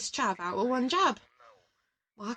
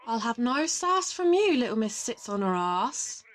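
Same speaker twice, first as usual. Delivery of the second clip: mock scolding; 5 dB louder than usual. Mock scolding a teasing friend.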